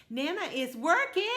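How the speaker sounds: high, loud, eager toad voice; bouncy high toad telling Nana the news; excited little toad. Acted. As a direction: burst in with happy news as a small toad.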